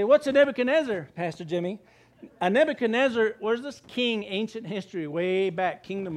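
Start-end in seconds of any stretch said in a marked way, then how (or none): 0.0-1.8 mock listener question.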